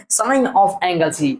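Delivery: "sine of angle C" very slowly; correct reading. Shown as a demonstration. Teacher shows students what is right, "sine of angle C" drawn out slowly. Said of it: "ये आपका सही है".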